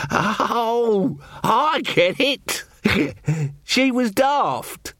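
high, slow, chuckling realisation; a simple yokel slowly catching on, chuckling; slow grinning. Acted. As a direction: let the grin spread as he gets the joke. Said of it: "suffused with a slow grin".

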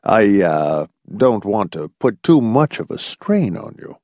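lightly voiced elderly man, hesitant concern; a hint of a fussy old doctor; old doctor, solicitous. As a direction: check on him carefully.

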